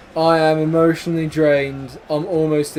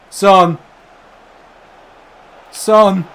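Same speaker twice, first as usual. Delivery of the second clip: very high, very loud celebration scream; ecstatic screaming; 16 dB louder, much slower than usual. Real, not acted. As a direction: scream it as the winner goes in. Scoring goal, screaming with joy.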